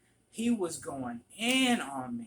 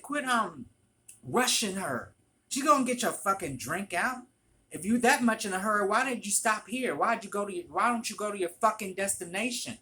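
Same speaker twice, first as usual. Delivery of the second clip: loud, heated retold tirade; flipping out; 6 semitones higher, 5 dB louder than usual. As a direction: lay into her in a raised voice. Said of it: "I flipped out".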